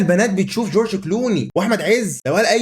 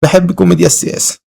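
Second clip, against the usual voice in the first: loud, strained retake of the line; 5 dB louder than usual. Pretend. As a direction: force the line out louder. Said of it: "حرام".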